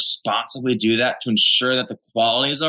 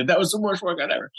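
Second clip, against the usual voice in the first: excitedly; 6 semitones higher than usual. Retold or imitated. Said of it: "Like, like, excitedly".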